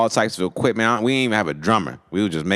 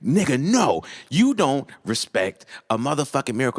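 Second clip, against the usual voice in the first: high, worked-up retort; indignant insistence; 7 semitones higher than usual. Retold or imitated. Brian refusing to drop the miracle with Lawrence, high indignant retort. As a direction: cut in, imitating an indignant believer.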